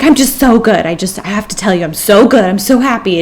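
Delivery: mock overjoyed rush of words; gushing happy. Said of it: "comes running up to her so happy".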